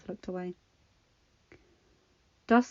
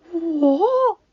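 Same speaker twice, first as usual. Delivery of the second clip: much higher, louder gasp of shock; 10 semitones higher, 13 dB louder than usual. A narrator's reading. Friend shocked by his self-blame, high gasped what. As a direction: breathe it out in disbelief. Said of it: "Jean breathed in shock".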